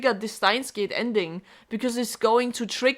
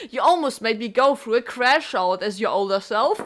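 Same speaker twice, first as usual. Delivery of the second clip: talking through laughter; chuckling all through; laughing; 3 semitones higher than usual. Real, not acted.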